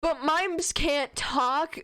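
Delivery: shouting. Acted. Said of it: "Martha shouts".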